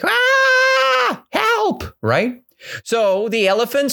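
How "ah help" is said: scared forest animal screaming for help. Acted. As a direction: shriek as if running from danger. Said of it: "they were screaming like".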